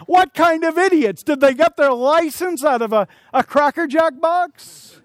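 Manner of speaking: imitating an annoyed motorist ranting about licenses; annoyed yelling. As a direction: sneer at their driving, slowing on the punchline. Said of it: "I start getting annoyed and say".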